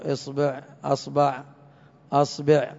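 "إصبع" then "أصبع" run through esbeʕ, esbaʕ, asbeʕ; change the vowels of "أصبع" each time; vowel variants. Shown as a demonstration. Teacher to class, showing all the variants of "أصبع" are correct. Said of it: "لو قال أصبع".

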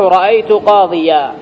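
slow قاضيا ending in a long aa; tanween as alif. Shown as a demonstration. Teacher showing the accusative pause, tanween turned to alif. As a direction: draw out the final aa of قاضيا, no n sound. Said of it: "بإبدال التنوين ألفا".

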